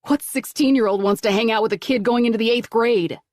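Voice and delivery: disgust. A narrator's reading. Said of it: "Kevin asked with disgust".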